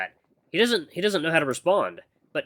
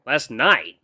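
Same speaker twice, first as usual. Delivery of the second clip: lightly voiced puzzled mentor; 4 dB louder than usual. Mentor questioning his acolyte's complaint, mildly puzzled. Mentor echoes heroine's words.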